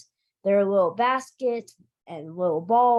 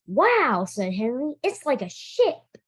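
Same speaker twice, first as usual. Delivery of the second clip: amazed; 4 semitones higher than usual. Acted. Henry amazed by attic.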